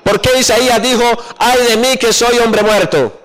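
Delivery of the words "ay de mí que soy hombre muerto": higher-pitched quoted exclamation; exclaimed lament. Acted. Preacher asks why Isaiah said it, raised exclaimed lament. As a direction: lift the woe into a mild outcry. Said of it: "Entonces yo exclamé".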